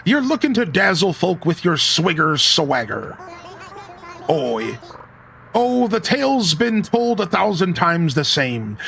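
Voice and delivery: a hint of a hearty sea dog; scottish laird. Reads old sea captain's lines.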